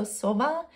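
sova said as Slovenian SO-va, open o; Slovenian word. Shown as a demonstration. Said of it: "in Slovenian".

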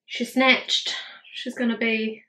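lightly put-on influencer sass; a hint of a glam influencer, playful; mock influencer voice. Admiring her own contour for viewers, a hint of influencer voice. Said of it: "I don't know why I'm talking like that".

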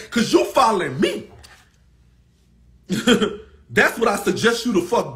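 loud and firm, chest out; defiant telling-off. Real, not acted. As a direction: stand your ground and snap back. Telling off a commenter.

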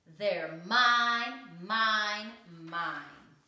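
loud greedy claim, tapering off; possessive shout. A narrator's reading. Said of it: "bit the butter tarts and said".

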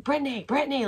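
high, frantic fan calling a star; imitated freak-out. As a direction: mimic an overexcited fan trying to get attention. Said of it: "like, freaking out".

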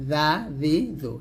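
"জা জি জো" with a light th-like z; tongue on upper teeth, keep "জা জি জো" thin. Shown as a demonstration. Teacher recapping the thin letter, light "জা জি জো". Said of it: "জালটা পাতলা করে উচ্চারণ করছি".

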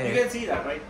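put-on Scottish accent. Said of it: "in Scottish".

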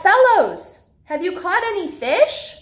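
high, loud friendly call across the water. Acted. Jesus calls to the disciples from the beach, loud and high. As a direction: hail the boat from the shore.

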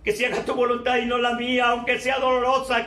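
hushed prayer of acceptance; quiet prayer. Retold or imitated. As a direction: pray it humbly and softly. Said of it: "puedo hablar y decirte".

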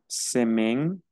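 SEMAINE as "se-men", final E silent; French pronunciation demo. Shown as a demonstration. Teacher showing the final E is not pronounced, French pronunciation demo. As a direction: say SEMAINE slowly, ending on the N. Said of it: "no se pronuncia".

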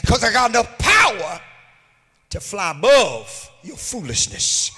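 loud, sung-out preaching climax; rising chanted sermon cadence; preaching at full force. Acted. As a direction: whoop it up over the congregation.

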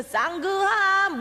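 mock Chinese accent. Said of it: "짜장면이 제일 싼 거 아니야".

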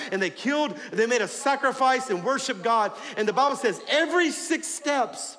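ordinary talk

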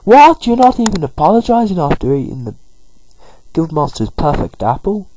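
high, loud indignant outburst; hammed-up scandalised telling-off; really annoyed. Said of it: "Chatot's getting really annoyed".

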